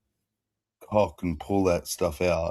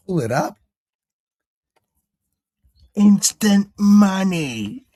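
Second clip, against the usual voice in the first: higher, slow, hammed-up British farmer pitching a scheme; British farmer impression; 7 semitones higher, slower than usual. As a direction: play the cocky British farmer boasting about easy money. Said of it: "he's a farmer and he's like".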